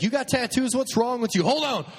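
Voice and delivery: high-pitched mock scolding; nurse giving a hard time. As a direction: imitate an exasperated nurse telling off a patient. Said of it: "she was giving me a hard time".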